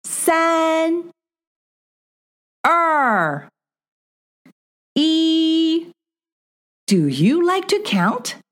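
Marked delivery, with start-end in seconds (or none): 0.0-5.9 high sing-song counting. Acted. Counting down for child learner.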